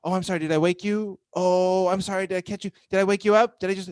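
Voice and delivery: mock-fret over waking her grown son; imitating apologetic mom. Mom on the phone, apologizing for waking her son, mock-fretful. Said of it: "It's very condescending".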